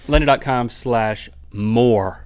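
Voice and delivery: slow, clear URL read. Acted. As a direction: spell the link out slowly.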